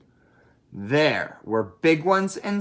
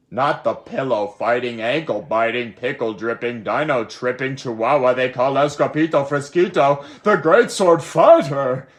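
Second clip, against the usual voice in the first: frightened shriek; 2 semitones higher, 7 dB louder than usual. Acted. T-Mexiquito recognizing the sword fighter, rising fearful shriek. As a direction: build to a terrified scream at the end. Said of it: "shrieked the T-Mexiquito".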